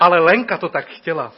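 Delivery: loud, laughing mock plea; mock excuse. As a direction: whine the excuse half-laughing. Second pleading excuse before God.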